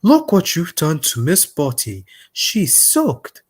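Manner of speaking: mild mock scolding; lightly acted telling-off; Sir Topham Hatt. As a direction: play a measured, understated scold. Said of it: "the way Sir Topham Hatt scolds Thomas".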